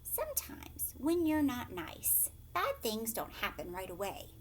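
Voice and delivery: soft whispered questions to the listener; whispered aside. Shown as a demonstration. Storyteller asking the child listening, whispered aside.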